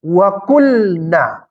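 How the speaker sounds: melantunkan ayat dengan sangat pelan; bacaan ayat pelan. Shown as a demonstration. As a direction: lafalkan Wa qulna perlahan seperti tilawah. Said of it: "Dia bilang begini". (ayat Al-Qur'an dibaca pelan dan khidmat)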